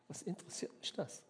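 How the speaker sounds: hushed, almost secretive echo; whispered repeat. Acted. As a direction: drop to a whisper on the repeat, as if to yourself. Jesus repeats the line, whispered.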